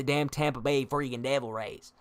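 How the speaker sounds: a touch of country twang; country accent. Real, not acted. Host tired of the same Rays topic, slight country accent. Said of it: "I said that with a country accent".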